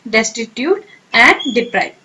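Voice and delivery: very slow, each word drawn out; slow teacher dictation. Shown as a demonstration. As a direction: stretch "Destitute and deprive" out slowly. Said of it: "Synonym क्या है".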